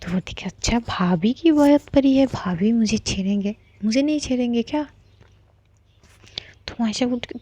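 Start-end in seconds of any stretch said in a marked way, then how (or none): 0.4-4.9 teasing mock. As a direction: throw her words back at her, teasing. Mocking partner's worry.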